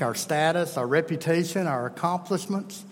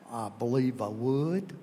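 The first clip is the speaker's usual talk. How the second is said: slow, low Kentucky country drawl; 4 semitones lower than usual. Retold or imitated. A hint of Kentucky farmer answering the hospital VP. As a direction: mimic a Kentucky farmer, drawn out. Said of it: "he talks like that".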